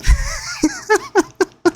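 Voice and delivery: high-pitched giggle; high laugh. Real, not acted. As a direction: giggle at your own joke. Laughing at his girl voice.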